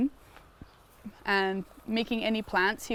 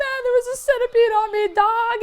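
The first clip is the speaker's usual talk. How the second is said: a lightly voiced, much higher, fast panicked voice; Randy Jackson; 7 dB louder than usual. Girl panicking to her uncle about the centipede, high fast voice. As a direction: rattle it off in a panic, a hint of a TV judge. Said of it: "you sound like Randy Jackson".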